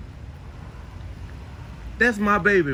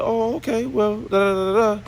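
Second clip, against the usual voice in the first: higher, breezy brush-off; mock casual; 10 semitones higher than usual. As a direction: act like it's no big deal. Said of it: "I was like".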